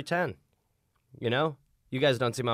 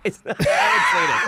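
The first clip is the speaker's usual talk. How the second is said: squealing laugh through the words, much higher; 6 dB louder than usual. Real, not acted. Reacting to a crude joke, laughing. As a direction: burst out laughing mid-line.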